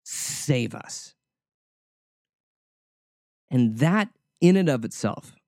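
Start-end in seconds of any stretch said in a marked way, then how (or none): 0.0-1.2 breathy hushed plea, much softer; a whispered desperate save us. Retold or imitated. Preacher voicing the crowd's cry, hushed. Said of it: "The people are crying out".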